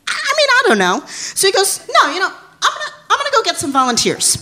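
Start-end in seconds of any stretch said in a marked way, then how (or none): 0.1-1.0 sheepish hesitation. Retold or imitated. Shy reply to friend's offer. 1.8-4.4 excited giggly friend. Retold or imitated. Friend Taylor eagerly recruiting.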